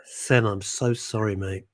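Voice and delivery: soft, low, sighed-out apology; hushed and regretful; subdued apology. Real, not acted. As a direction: apologise quietly, voice sinking away at the end. Apologising to upset co-host.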